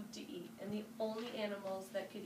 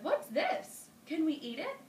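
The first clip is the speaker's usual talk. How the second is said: high, loud crocodile questions; curious crocodiles; 7 semitones higher, 7 dB louder than usual. A narrator's reading. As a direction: voice hungry crocodiles puzzling over a find. Crocodiles discover the spider.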